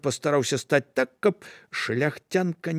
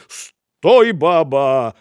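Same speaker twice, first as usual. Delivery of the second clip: shout; 9 dB louder, much slower than usual. Acted. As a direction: bark it at her. Apostle shouts stop.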